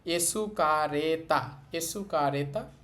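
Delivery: এসুকারেতা with a long vowel after তা; stretched ending. Shown as a demonstration. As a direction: hold the final vowel of এসুকারেতা. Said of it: "তায়ের পর আবার একটু টেনে বলতে হবে".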